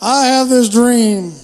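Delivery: mock MLK orator. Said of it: "was that attempt at an impersonation there".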